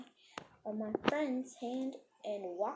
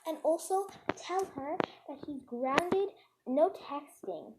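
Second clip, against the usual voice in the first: higher-pitched mock parents' telling-off; retold angry yelling; 5 semitones higher than usual. Parents on speakerphone to the teacher, mock angry yelling. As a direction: scold as imitated furious parents. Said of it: "yelling at her like crazy".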